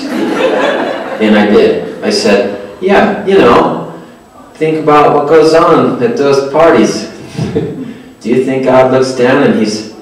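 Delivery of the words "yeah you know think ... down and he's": halting, higher-pitched retold fumbling; unsure, groping for the words. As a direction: stumble through an awkward explanation. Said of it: "I was just kinda fumbling".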